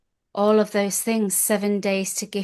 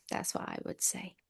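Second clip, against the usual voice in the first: whisper; 12 dB quieter than usual. Real, not acted. Confiding aside.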